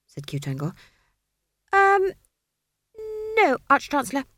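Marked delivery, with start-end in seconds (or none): 1.7-4.3 high, flustered, stammering wizard; a jittery young wizard voice; nervous wizard. A narrator's reading.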